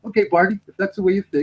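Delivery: a hint of a put-out Inspector Luger. Luger answering Barney in the retold skit, mild put-on voice. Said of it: "Luger looks at Barney and goes".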